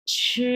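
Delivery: ছি held high and level; first tone. Shown as a demonstration. Teacher models the word for eating, high level first tone on ছি. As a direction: stretch ছি on a high, even pitch. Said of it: "এক number tone".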